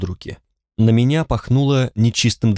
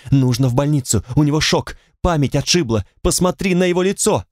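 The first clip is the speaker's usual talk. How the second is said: higher, despairing urging; a desperate woman insists the stranger needs hospital, higher; 4 semitones higher than usual. Acted. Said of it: "сказала в отчаянии".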